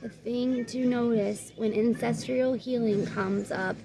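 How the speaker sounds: measured, even oracle-card reading; guidebook read-aloud. Real, not acted. Reader giving viewers the card's message, measured read-aloud.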